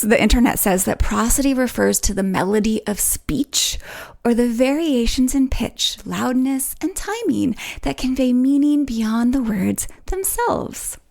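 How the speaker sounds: varied, melodic read of a definition; lilting, melodic explanation; melodic intonation. Shown as a demonstration. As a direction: let the pitch rise and fall playfully over each phrase. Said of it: "I had a very melodic and varied intonation".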